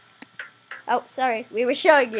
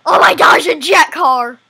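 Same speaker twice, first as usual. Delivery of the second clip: excited; 2 semitones higher, 9 dB louder than usual. Real, not acted. Spots jet car in game.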